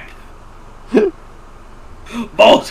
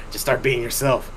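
retold whisper; 6 semitones lower, 7 dB quieter than usual. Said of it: "she kinda whispers in my ear".

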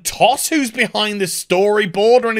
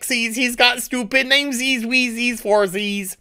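mocking Lion-O; 5 semitones higher than usual. Mocking the trailer, a high babyish Lion-O voice. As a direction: sneer at a childish Lion-O, cooing silly words. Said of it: "animation clip with Lion-O saying".

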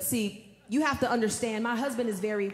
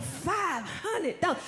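slow, drawn-out shocked question; husband gasping at the sum, slowly; mock disbelief; 5 semitones higher, slower than usual. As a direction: stretch it out in disbelief.

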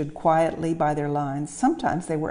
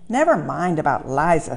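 driver scolding; 5 dB louder than usual. Acted.

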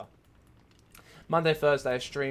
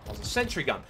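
slightly loud, higher-pitched disbelief; incredulous; 6 semitones higher, 4 dB louder, faster than usual. Real, not acted. Player noticing a sentry gun, incredulous but controlled. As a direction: state it in raised, still controlled disbelief.

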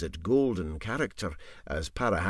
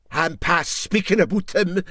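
hopeless resignation; 9 semitones higher, 8 dB louder than usual. Acted. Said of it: "with hopeless resignation".

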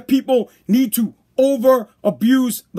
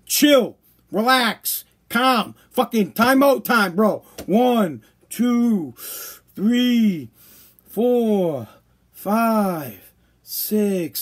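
calming a buddy; much slower than usual. Retold or imitated. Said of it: "the other cop can just go".

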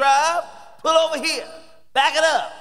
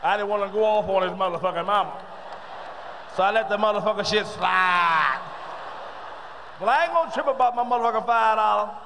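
lightly voiced guy complaining about Bobby, building up; brother talking; 3 semitones lower than usual. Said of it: "listen to two brothers talk".

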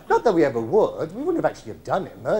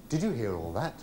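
stunned; 6 semitones lower, 5 dB quieter than usual. Acted. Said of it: "looking stunned".

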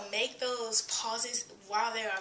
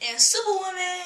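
louder and higher, a shout of the name; excited shout; 7 semitones higher, 7 dB louder than usual. Real, not acted.

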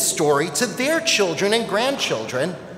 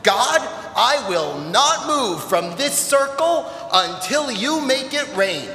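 shouted vow; 4 semitones higher, slower than usual. Acted. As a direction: plant your feet and shout it slowly upward. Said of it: "Honi shouted".

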